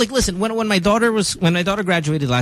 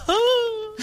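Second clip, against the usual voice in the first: choked-up oh; 3 dB quieter than usual. Real, not acted. Touched by son's reply.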